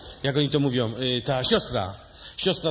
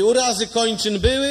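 higher, louder clipped question; brusque doctor; 7 semitones higher, 5 dB louder than usual. Acted. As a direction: quiz him like a bored doctor. Doctor asks. (znudzony lekarz, wyżej i głośniej)

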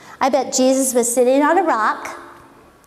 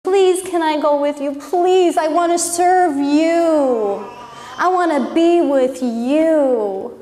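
pleading; 2 semitones higher than usual. Retold or imitated. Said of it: "He's begging".

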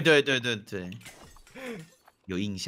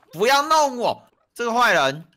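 playful protest; 8 semitones higher, 4 dB louder than usual. Real, not acted. Player protests at being messed with.

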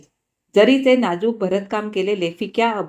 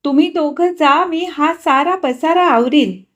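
higher, louder earnest offer; Vrunda offering; 7 semitones higher, 6 dB louder than usual. Acted. Vrunda offering to tidy up the mess, earnest. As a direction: offer to clear up.

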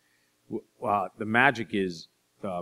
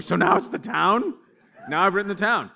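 quoting wife; 12 semitones higher, 7 dB louder than usual. Retold or imitated. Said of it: "My wife's like".

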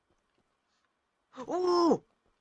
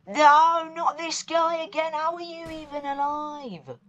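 high, loud panicked dismay; scared horror game streamer; 10 semitones higher, 6 dB louder than usual. Real, not acted. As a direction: panic as the monster returns. Monster returns in horror game.

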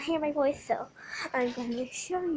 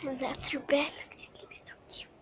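hushed whisper by the sleeping dog; whispering over a crib; 15 dB quieter than usual. Real, not acted. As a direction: whisper softly, don't wake her. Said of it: "Be really quiet".

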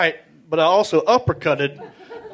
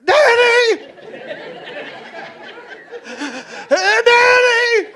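calling out; much slower than usual. Retold or imitated. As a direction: shout his name into the dark. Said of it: "I'm going".

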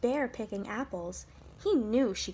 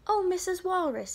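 high, eager little bird's call; crying out; 7 semitones higher, 3 dB louder than usual. A narrator's reading. Little bird greeting Missus Walrus, crying out. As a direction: call out hopefully, pitch well up. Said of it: "he cried".

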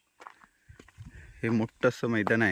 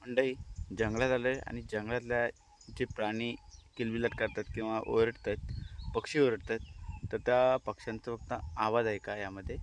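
softer voice so the birds come through; hushed; 7 dB quieter than usual. Real, not acted. Vlogger telling viewers to listen to the forest birds, hushed voice. Hushing so birds can be heard.

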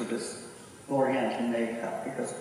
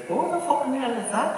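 incredulous shout; 12 semitones higher than usual. Retold or imitated. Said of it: "he said".

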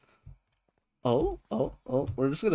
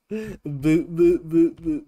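mock boo chant; 4 semitones higher, 7 dB louder, slower than usual. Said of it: "It just sounds so stupid".

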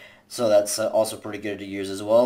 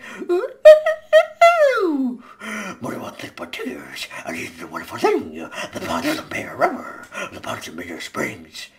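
sinister hushed villain; killer voice; 9 semitones higher than usual. Retold or imitated. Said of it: "And the killer".

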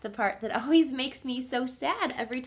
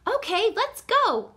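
high, loud, keen reply; eager agreement; 13 semitones higher, 7 dB louder than usual. A narrator's reading. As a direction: jump at the invitation.

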